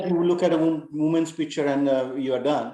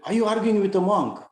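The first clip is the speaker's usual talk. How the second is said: mildly angry, higher-pitched rebuke; retold anger; 6 semitones higher, 3 dB louder than usual. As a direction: imitate an indignant challenge, pitch raised. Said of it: "he got suddenly very angry".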